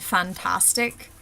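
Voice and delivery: "fantastic" with open back a sounds; Irish-style open a in "fantastic". Shown as a demonstration. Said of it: "open sound".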